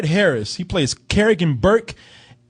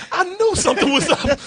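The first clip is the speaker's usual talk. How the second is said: laughing mock wife; 11 semitones higher than usual. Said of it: "She was like".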